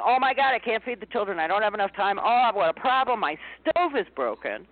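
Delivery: mildly frantic worried parent; mock panic. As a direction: play the frantic parent at the stove. Acted panic at stove.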